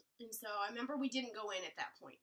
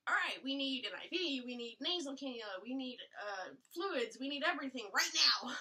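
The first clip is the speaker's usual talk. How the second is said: rushed nurses; 3 semitones higher, 6 dB louder than usual. Retold or imitated. Nurses rushing, code blue.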